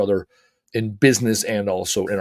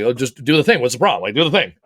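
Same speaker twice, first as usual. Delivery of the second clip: casual; 4 dB louder, faster than usual. Retold or imitated. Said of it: "Very casually".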